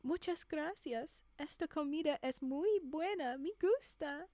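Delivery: Spanish spoken by a nervous English learner, each word laid out with care; a lightly exaggerated careful learner's Spanish accent. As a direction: carefully sound out the Spanish like a beginner. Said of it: "says in an exaggeratedly careful accent".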